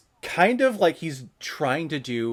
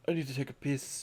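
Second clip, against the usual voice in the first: imitated dismissive reply; 10 dB quieter, faster than usual. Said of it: "I'm gonna do that the next time".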